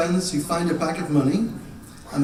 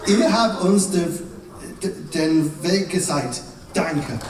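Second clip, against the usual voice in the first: pretend German. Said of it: "I'm going to pretend to speak German".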